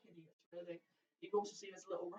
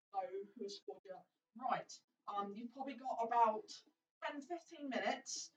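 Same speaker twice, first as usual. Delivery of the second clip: mysterious arena host. Acted. NPC host addresses the party.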